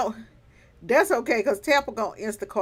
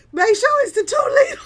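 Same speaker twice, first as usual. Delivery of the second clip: laughing whisper; 13 dB louder than usual. Real, not acted.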